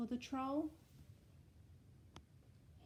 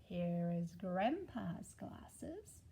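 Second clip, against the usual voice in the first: finger rhyme; slower than usual. Acted. Rhyme game.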